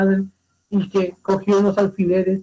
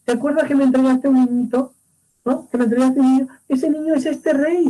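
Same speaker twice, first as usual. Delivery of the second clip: higher, insistent reminding; eager reminding; 5 semitones higher than usual. Acted. Messenger presses the shepherd about the baby, higher and insistent. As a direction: press him to admit it.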